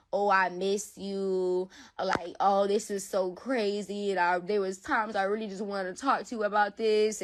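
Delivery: slow, drawn-out sweet talk, retold; mock sweet. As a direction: imitate him being nice, stretching the words. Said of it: "He being all nice to me".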